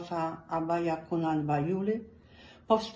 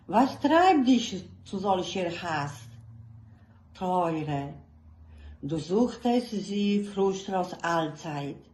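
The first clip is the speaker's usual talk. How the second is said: slow, measured poetic reading with long pauses; solemn German verse reading, unhurried and earnest; poem recitation; 2 semitones higher, 5 dB louder, slower than usual. Acted. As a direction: recite it like a lament to your own heart.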